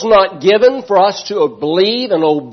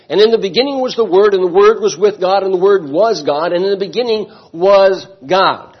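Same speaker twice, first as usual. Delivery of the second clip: brisk, raised scripture reading; reading scripture aloud; 3 semitones higher, 3 dB louder than usual. Shown as a demonstration. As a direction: read the verse out to the congregation. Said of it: "I read".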